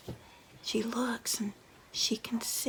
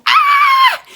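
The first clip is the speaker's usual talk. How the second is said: piercing high shriek of fright; sudden high loud scream; terrified scream; 22 dB louder than usual. Acted. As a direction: shriek like you just saw a ghost. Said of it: "And Mom screamed".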